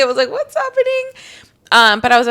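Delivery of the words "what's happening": mock bewilderment. Acting out waking up sick.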